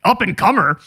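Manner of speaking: incredulous "Up-and-comer?" with a falling end; scoffing. Acted. Thirty-eight-year-old mocking the label, scoffing. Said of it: "I'm thirty-eight years old".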